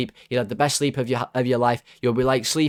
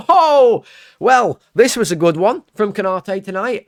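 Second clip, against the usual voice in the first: laughing sarcastically; 8 semitones higher, 7 dB louder than usual. Real, not acted. Sarcastic laugh at Konate's error.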